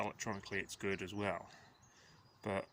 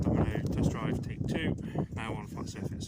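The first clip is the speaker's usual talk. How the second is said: loud announcing; 10 dB louder than usual. Real, not acted. Announcing the second test run.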